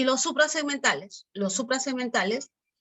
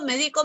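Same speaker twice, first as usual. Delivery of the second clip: "médico" said me-DI-co, middle syllable stressed; stress on DI of medico; 3 semitones higher than usual. Shown as a demonstration. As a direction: hit DI in "médico". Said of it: "el acento cumple función distintiva". (acento en DI: «médico» dicho me-DI-co)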